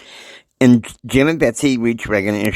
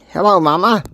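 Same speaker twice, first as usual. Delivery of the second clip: high-pitched; 8 semitones higher, 4 dB louder, faster than usual. Retold or imitated. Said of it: "And J R's like".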